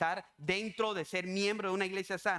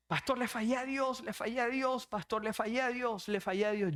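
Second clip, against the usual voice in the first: high-pitched, repeated mock-crying confession; imitated tearful plea; 5 semitones higher than usual. Young woman calls her pastor confessing she failed, imitated crying. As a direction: plead as if crying, voice pushed up. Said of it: "Y decía llorando".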